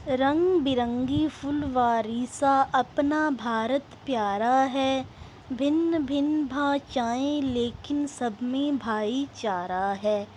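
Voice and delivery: slow, measured verse reading; poem recitation. Acted. Teacher reciting a patriotic poem to students, measured recitation. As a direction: recite it slowly in drawn-out rhythmic phrases.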